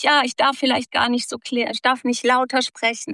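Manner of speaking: put-on squeaky little-girl voice; squeaky girlish voice. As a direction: imitate a girl afraid to speak up. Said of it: "hängen geblieben ist von fiepsig".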